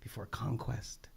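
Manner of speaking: slow, hushed poem reading; quiet, reverent recitation; poem recital. Real, not acted. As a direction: let each line sink down softly. Reads back a poet's lines.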